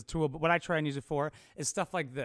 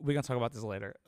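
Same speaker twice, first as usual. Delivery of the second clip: low, softer mock couple voice; couple's silent warning; 5 semitones lower, 5 dB quieter, much faster than usual. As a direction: voice the couple's shared look, hushed. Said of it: "the way they looked at each other".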